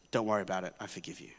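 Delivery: low, hushed, gentle reassurance; God quietly forgiving the sinner, softly. Acted. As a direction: whisper pardon like a quiet comfort.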